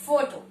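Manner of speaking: फोटो said foe-toe, stress on the first syllable; photo. Shown as a demonstration. Teacher demonstrates the base word फोटो. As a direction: model फोटो clearly for students. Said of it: "एक example मैं आपको दे रही हूँ".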